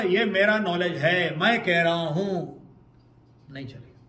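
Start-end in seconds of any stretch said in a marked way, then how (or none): 0.0-2.6 louder, slow boastful claim; mock boast. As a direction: imitate a proud teacher claiming credit. Mocking boastful teacher. (घमंडी गुरु की नकल)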